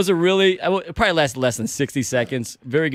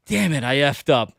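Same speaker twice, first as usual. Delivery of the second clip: slow, understated retold confession; rueful admission; slower than usual. Police officer admitting his mistake to the driver, rueful. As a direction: drop it slowly and matter-of-fact.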